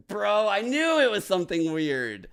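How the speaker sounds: loud, high, shouting out in disbelief; real frustrated outburst; excited shout. Real, not acted. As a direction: yell it like the guess just blew up. Finds out he guessed wrong.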